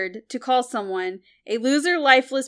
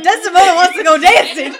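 loud laughing echo, higher; laughing mock quote; 7 semitones higher, 10 dB louder than usual. Gamemaster teasing the player, echoing her loudly through laughter. Mocking Desdemona's plea, laughing.

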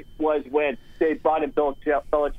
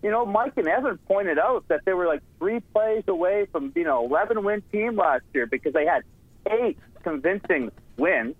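higher, mock-earnest sarcastic praise; 4 semitones higher than usual. Real, not acted. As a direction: lay the sarcasm on, slowing for effect. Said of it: "I'm sensing a little sarcasm here".

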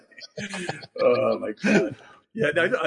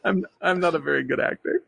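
higher retold actor impression; amused mock confession, higher-pitched; Malkovich; 6 semitones higher than usual. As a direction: confide it in a put-on actor voice. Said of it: "looks at me and goes".

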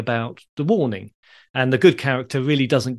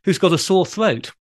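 lightly voiced panto dame, higher pitch; lilting higher delivery of a corny stage joke; pantomime dame; 4 semitones higher than usual. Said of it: "the dame said".

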